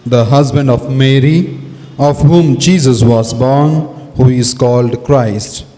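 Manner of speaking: steady, solemn reading aloud; gospel reading. Acted. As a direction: proclaim it like a priest reading scripture. Priest reads the gospel.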